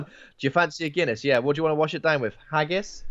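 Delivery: mocking Irish offer. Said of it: "someone at some point said".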